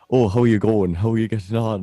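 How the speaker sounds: hammed-up fake Irish accent; bad Irish impression. Irish speaker mocking how people fake the accent, bad impression. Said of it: "bad impression of, like, Irish people".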